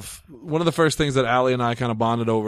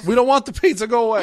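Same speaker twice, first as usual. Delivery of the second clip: high, loud pretend panic; mock scared yelling; 11 semitones higher, 4 dB louder than usual. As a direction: shout it like you're hiding from the door. Mock fear at pizza knock.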